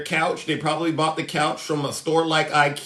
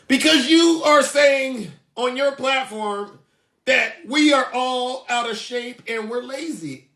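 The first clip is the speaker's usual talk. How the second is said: higher, slow whiny fan voice; mock offended fan; 5 semitones higher than usual. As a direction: play the hurt follower, drawn out. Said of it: "they say".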